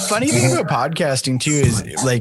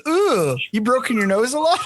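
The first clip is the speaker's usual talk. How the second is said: high, surprised mock nurse voice; imitating the nurse; 10 semitones higher than usual. Retelling the covid test nurse who jammed his nose, high imitating voice. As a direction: squeal it out like a startled nurse. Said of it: "and she goes".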